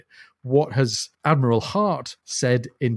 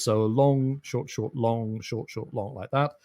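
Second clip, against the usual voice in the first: "long" stressed, "short" said softer, beat by beat; reciting a meter; 2 semitones lower, 4 dB quieter, slower than usual. Shown as a demonstration. Explaining a dactyl to the co-host, reciting long and short beats. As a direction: tap out the rhythm: long, short, short. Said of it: "a dactyl is a metrical foot".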